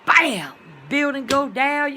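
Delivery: loud mock disaster. Acted disaster, building collapsing.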